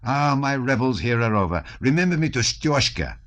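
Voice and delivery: a touch of a reveller taking leave; lightly voiced Anatole.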